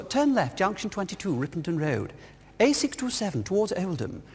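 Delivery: lightly voiced posh navigation lady; a hint of a well-spoken satnav voice; posh satnav woman. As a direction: read out directions like a posh satnav. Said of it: "this really posh woman".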